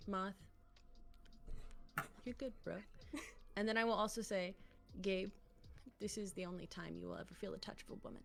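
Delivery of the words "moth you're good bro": soft, hushed whisper, close to the ear. Describing a plan to hug someone, whispering in his ear. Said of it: "I'll whisper in his ear".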